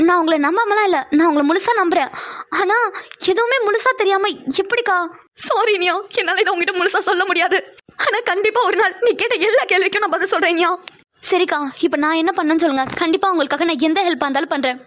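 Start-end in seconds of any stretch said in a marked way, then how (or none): 5.5-10.7 slightly higher, pained confession; an older sister admitting a painful truth; lightly voiced sister, sorrowful; hurt elder sister. Pavi pleads, withholding.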